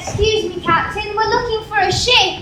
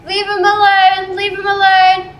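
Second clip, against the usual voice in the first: retold shout; 2 semitones higher, 7 dB louder than usual. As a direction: yell it as if chasing the thieves. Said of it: "She kept shouting".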